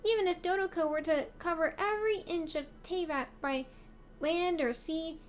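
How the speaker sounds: cutesy voice. Acted. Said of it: "a cutesy voice".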